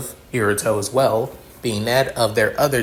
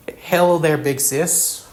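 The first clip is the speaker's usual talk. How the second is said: excited; 5 semitones higher than usual. Acted. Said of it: "Sarah excited".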